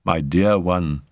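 gentle, understated endearment; tender. Acted. Raoul puts his arms round Simone, tender. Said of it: "he said tenderly".

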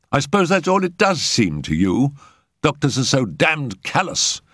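put-on high-pitched, indignant young man. A narrator's reading. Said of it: "Jack felt indignant".

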